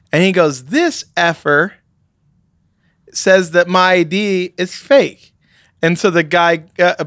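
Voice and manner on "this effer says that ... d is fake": slow, emphatic mock outrage; acted indignation, heavily spaced out; indignant complaint. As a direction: retell his indignation word by word, drawn out. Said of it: "zero to sixty type, uh, temper".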